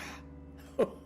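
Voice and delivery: short chuckle at own cunning; sly, self-amused laugh; madman's chuckle. Acted. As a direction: chuckle like a deranged confessor.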